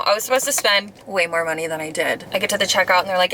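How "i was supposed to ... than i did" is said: talking through numb swollen lips; numb lips after filler. Real, not acted. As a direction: mouth numb from lip injections. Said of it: "not me trying to talk right now".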